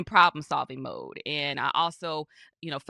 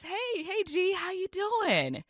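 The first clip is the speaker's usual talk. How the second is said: friend's gentle greeting; 11 semitones higher than usual. Retold or imitated. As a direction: play the caring friend checking in gently, pitched up. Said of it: "she says".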